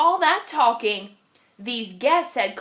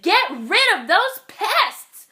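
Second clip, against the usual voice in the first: shouting friends; 7 semitones higher, 5 dB louder, slower than usual. Acted. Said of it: "friends shouted".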